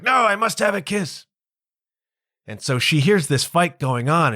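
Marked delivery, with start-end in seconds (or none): 0.0-1.3 insistent demand. Retold or imitated. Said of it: "he's like".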